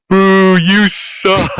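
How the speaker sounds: jeering. Pretend. Jeering the villain's speech.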